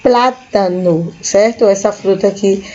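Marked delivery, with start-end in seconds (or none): 0.0-1.1 plátano said slowly and clearly. Shown as a demonstration. Teacher modelling plátano for students. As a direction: stretch out plátano, stress on PLÁ. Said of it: "banana em espanhol se diz".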